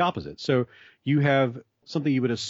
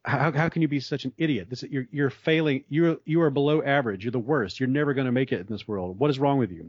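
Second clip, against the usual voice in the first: mock scolding, pitched higher throughout; berating; 3 semitones higher than usual. Teacher berating failing students, imitated harsh scolding. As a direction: tear into them like a harsh teacher, half-acted. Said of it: "then just berate them and say".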